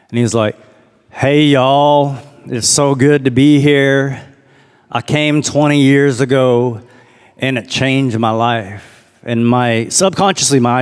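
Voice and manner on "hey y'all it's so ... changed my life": light imitation of a slow Texas drawl; a hint of a Texas preacher, drawn out; Texas country drawl. Imitating the camo-hat teacher greeting the retreat, mild Texas drawl. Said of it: "the thickest Texas, like, country drawl".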